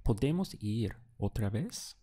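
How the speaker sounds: ¿Podemos ir otra vez? ending on a rise; question tone. Shown as a demonstration. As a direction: ask ¿Podemos ir otra vez? with the pitch going up. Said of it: "let's ask that as a question".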